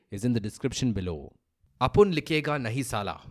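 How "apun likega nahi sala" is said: put-on Hindi film line in a South Indian accent. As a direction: mimic a South Indian movie hero's accent. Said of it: "Please pardon my South Indian accent".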